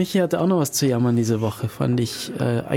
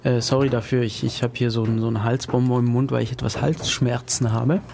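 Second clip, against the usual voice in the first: throat lozenge. Real, not acted. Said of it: "Was ich heute ein bisschen schmatze, äh, sorry dafür".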